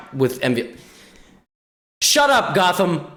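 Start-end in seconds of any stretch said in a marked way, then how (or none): 2.0-3.1 angry commenter. Retold or imitated. Voicing a hostile YouTube commenter.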